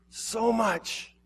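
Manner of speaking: high but soft, a breaking echo; hushed echo. Acted. Jesus repeating his love, hushed and aching. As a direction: let the repeat fade into a sigh. Jesus grieving over the lost.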